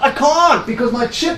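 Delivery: high, loud, frantic, laughing voice.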